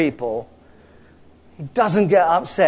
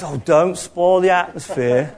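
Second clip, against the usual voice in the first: fussy worshipper; slower than usual. Retold or imitated. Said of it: "some people think".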